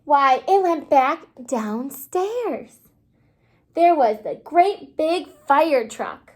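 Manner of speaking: put-on lively read-aloud storybook voice for little kids; reading to children. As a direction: read the picture book to the class, bright and clear. Teacher reads picture book aloud.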